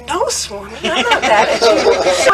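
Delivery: meek denial. Retold or imitated. Retold meek denial to guru.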